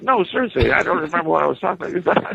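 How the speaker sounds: high, quick, baffled pleading; mock stoned confusion. Stoned teller insisting to his laughing friend, high and baffled. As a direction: plead like you truly forgot. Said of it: "I said".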